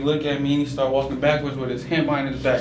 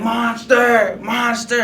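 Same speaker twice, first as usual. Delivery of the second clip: playful mock monster call, higher and louder; 9 semitones higher, 6 dB louder, much slower than usual. Uncle chasing his nephew upstairs, playful mock monster. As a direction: growl it playfully to scare the kid.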